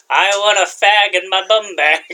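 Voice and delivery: slang-heavy Brit impression, played for laughs; mock British accent. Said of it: "a fairly good British accent".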